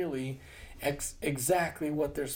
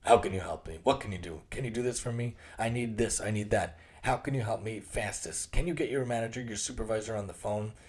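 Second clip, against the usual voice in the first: gruff customer. Retold or imitated. Impatient customer snapping at a service rep, gruff. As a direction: bark demands like an impatient customer. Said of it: "Usually they're very gruff".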